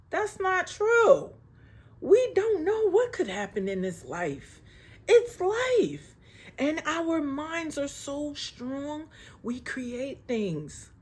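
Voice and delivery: fighting back real tears while insisting. Real, not acted. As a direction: voice rising high into crying, slow. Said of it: "oh, I'm getting emotional".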